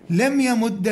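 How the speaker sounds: "يمد" ending in "a", yamudda; fatha ending. Shown as a demonstration. Teacher listing allowed forms for parsing, "يمد" with fatha. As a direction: say "يمد" with doubled d and short "a". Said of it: "الفتح يجوز أخف الحركات".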